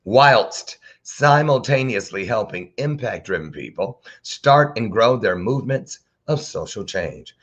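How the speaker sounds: whilst stretched out slowly; savoring the words. Shown as a demonstration. Host reading the guest's bio to viewers, slow and relishing. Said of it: "When was the last time you used that word".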